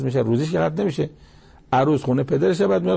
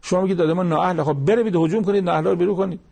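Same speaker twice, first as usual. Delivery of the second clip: retold rallying cry; 5 semitones higher than usual. Preacher retelling two pious men urging their people, mild rallying cry. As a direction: urge them on, imitating a mild outcry. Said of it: "نعره کشیدن".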